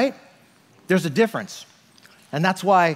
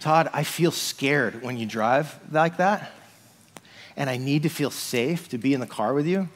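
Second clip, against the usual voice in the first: gentle I-statement; 3 semitones lower, 4 dB quieter than usual. Retold or imitated. Wife telling him her need in the car, gently. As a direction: calmly voice the wife's need. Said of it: "But when she says".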